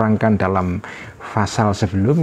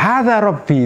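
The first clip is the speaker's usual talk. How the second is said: high-pitched exclamation at usual volume; mild retold cry; 9 semitones higher than usual. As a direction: lightly imitate someone crying out. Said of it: "Nabi Ibrahim mengatakan berteriak".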